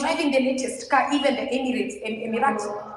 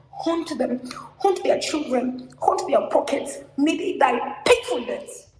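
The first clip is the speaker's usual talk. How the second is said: raging curse; 4 semitones higher, slower than usual. Real, not acted. Activist cursing the government over killed comrades, raging. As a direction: hurl the curse with mounting fury.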